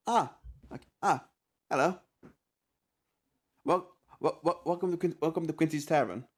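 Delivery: high, halting southern barkeep welcome; a Southern tavern keeper greeting guests, high and stammering; southern accent. Acted. Barkeep greets the party in a high southern twang. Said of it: "He says this with a southern accent".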